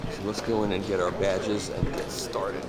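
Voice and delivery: talking through a face mask; muffled voice behind a mask. Real, not acted. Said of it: "so if I sound kind of muffled".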